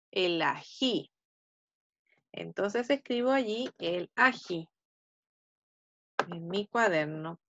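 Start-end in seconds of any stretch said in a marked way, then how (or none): 0.1-1.1 "El ají" repeated slowly and softer, lower; slow quiet repeat. Shown as a demonstration. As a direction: calmly confirm "El ají" for the kids. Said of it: "¿Qué digo yo?". ("El ají" repetido despacio y más bajo)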